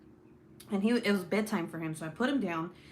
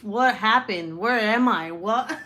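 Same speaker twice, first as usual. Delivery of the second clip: loud, bewildered outburst; startled confusion; 8 dB louder, slower than usual. Retold or imitated. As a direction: act out waking up totally lost, loudly. Retold waking up confused, still high.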